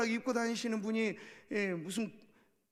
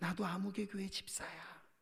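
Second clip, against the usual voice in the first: very soft half-whisper, close and intimate; 3 semitones lower, 9 dB quieter than usual. Retelling what a drinking department head later told a new employee: retelling a half-whisper. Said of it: "나중에 귓속말로 말합니다".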